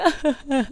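high, soft mock sobbing; sollozo dramático imitado. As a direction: fake a little crying fit. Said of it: "haciendo mi escándalo de que". (sollozo fingido de drama)

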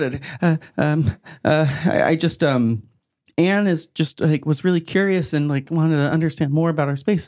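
high, stammering excuse; flustered Ass. Acted. Nervous cultist explains the new recruit to Az, high and flustered. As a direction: stumble over the words in an excited high voice.

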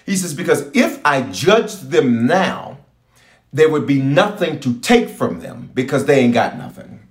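slow, measured voice of God; slow, deliberate divine voice; voicing God slowly. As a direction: speak as the Lord, unhurried. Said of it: "He said".

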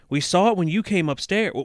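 put-on high, loud kid's excuse; child yelling. A narrator's reading. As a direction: keep yelling like a protesting child. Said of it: "Danny yelled".

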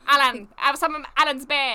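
mock British accent. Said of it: "weird kind of British".

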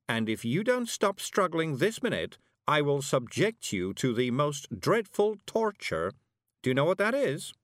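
threatening witch. A narrator's reading. Witch warns her struggling captive of torture, mock menace. Voices Miss Level threatening.

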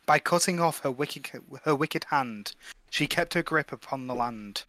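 slowing, softening toward the end; rhyme recitation. Acted. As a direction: read out a curse in measured verse. Reads the curse rhyme aloud.

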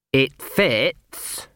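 slow, hesitant prince; a doubtful tone with mild uncertainty. Acted. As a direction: say it as if unconvinced. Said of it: "in a doubtful tone of voice".

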